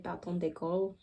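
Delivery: quick, self-mocking bad French accent on bâton d'école; horrible French accent. Shown as a demonstration. Crafter naming the glue stick in French, in a bad French accent. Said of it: "said in a really horrible accent".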